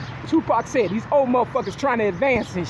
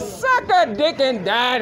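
laughing insult; much slower than usual. Real, not acted. Mocking a man, laughing.

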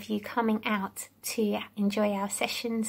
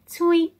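bird tweet; 5 semitones higher, 5 dB louder than usual. Shown as a demonstration. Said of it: "sounds of the animals".

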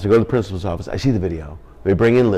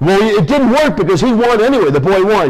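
put-on squeaky kid confession; 12 semitones higher, 6 dB louder than usual. Kid voice continues.

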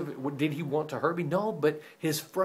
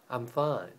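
passive-aggressive. Retold or imitated. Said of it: "passive-aggressive is where".

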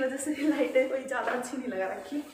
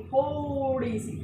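"थोड़ी" stretched very long on its first vowel; drawn-out emphasis; 3 semitones higher, much slower than usual. Real, not acted. Cook stressing a tiny pinch, "थोड़ी" held very long. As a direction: draw out "थोड़ी" to show how tiny. Stresses how little asafoetida she adds.

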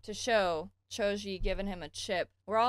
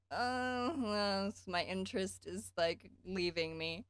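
mock crying camera; slower than usual. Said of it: "The camera was literally like".

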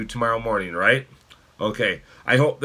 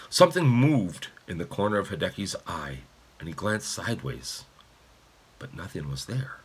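softening, lower storytelling; story narration; 3 semitones lower, 3 dB quieter than usual. A narrator's reading. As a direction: let the sentence sink into a hush. Reads a novel aloud.

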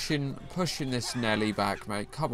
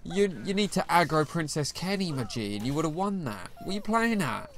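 pitched up, telling the player off; what were you thinking, higher and faster; exasperated scolding; 5 semitones higher than usual. Real, not acted. Gamer scolding a teammate's bad play, exasperated and high.

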